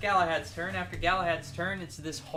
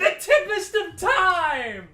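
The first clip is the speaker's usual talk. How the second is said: booming monster voice; 12 dB louder, much slower than usual. Acted. GM announces monster attack.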